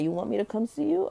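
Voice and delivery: high, quick coy question; retold flirting back. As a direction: imitate her teasing him, lightly and fast. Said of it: "she's flirting back".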